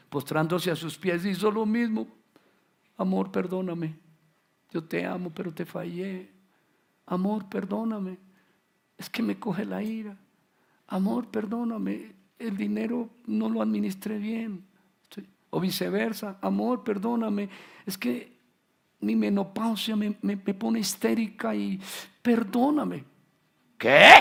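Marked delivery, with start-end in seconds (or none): 3.0-23.0 lightly voiced begging spouse; pleading spouse. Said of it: "cónyuge pidiendo perdón". 23.8-24.1 loud, sharp astonished retort; indignant what. Retold or imitated. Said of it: "contestó él".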